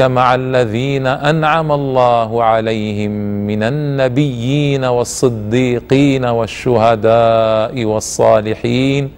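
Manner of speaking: slow, drawn-out tajweed chant; Quran recitation. Acted. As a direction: recite it slowly and melodically. Quran verse recited in lesson.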